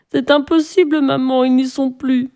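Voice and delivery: put-on high child voice, giving up; lightly voiced girl, a touch of despair; despairing little girl. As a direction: answer mother hopelessly. Tearful Sophie answering.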